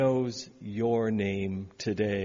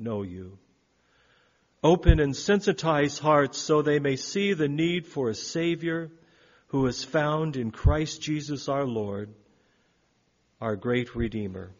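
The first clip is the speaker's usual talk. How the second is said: prayer. Acted. Pastor praying aloud for the congregation and missions team, reverent prayer. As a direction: lift the congregation's needs to God.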